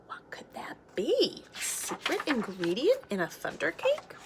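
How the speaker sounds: breathless curiosity; gasping wonder. Acted. Child asking grandma, gasping hushed wonder.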